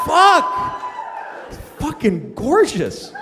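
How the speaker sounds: high breathless gasp, then slow; awestruck. Retold or imitated. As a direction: swoon over his beauty. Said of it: "It's like".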